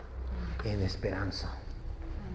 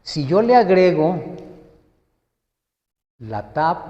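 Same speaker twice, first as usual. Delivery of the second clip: usual speaking voice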